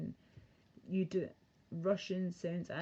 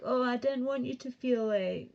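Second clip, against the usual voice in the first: higher-pitched mimicry of mum; imitated mother; 5 semitones higher, 4 dB louder than usual. Daughter mimics mum excusing herself, higher mocking voice. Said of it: "But she was like".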